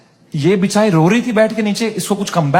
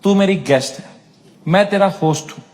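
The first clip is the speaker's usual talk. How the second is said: mock caring host; 5 semitones lower than usual. Host coaxing a tearful guest, lower mock earnest. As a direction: coax her gently like a big brother. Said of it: "मैं कहा".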